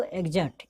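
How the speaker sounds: "एग्जर्ट" said with a voiced gz sound for the x; pronunciation demo. Shown as a demonstration. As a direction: read out "एग्जर्ट" as eg-ZART. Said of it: "क्या पढ़ेंगे इसको".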